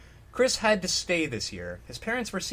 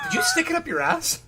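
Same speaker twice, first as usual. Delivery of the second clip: high shout of mock outrage; shocked shout; 13 semitones higher than usual. Real, not acted. Co-reader yelling a crude guess, high shouting. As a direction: yell it, scandalised.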